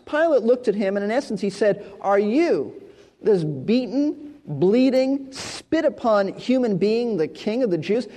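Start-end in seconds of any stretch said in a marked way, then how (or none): 2.0-8.1 slow, lightly mocking question; scornful ridicule. Pilate mocking the bleeding Jesus, a mild scornful drawl. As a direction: sneer at the beaten prisoner. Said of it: "a question of ridicule and scorn".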